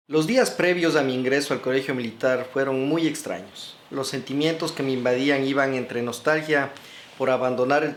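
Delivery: projected, carefully phrased memoir reading; story narration. Real, not acted. Author reads of his first cadet days, story narration. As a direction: read it out as a narrator, in full rounded sentences.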